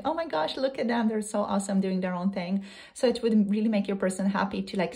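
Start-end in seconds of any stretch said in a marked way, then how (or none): 0.0-2.6 admiring gush. Pretend. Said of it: "being like".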